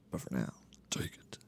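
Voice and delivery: low, hushed whisper impression; Laviska. Analyst imitating a player while giving his verdict, whispered. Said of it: "That was your Laviska voice".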